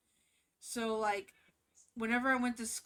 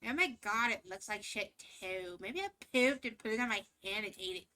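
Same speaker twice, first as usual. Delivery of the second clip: mocking preppy girl; 3 dB louder than usual. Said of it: "be like".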